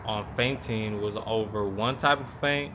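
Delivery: talking around a mouthguard; words muffled by a mouth guard; wearing a mouthguard. Real, not acted. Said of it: "Excuse me for having my mouth guard in".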